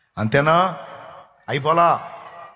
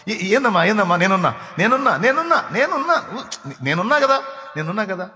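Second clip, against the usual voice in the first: comforting parent; 2 semitones higher than usual. Retold or imitated. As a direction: coo reassurance to a frightened little one. Parent comforting frightened child.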